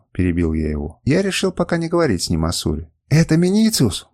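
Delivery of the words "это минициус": moaning. A narrator's reading. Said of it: "продолжал стонать Кернус".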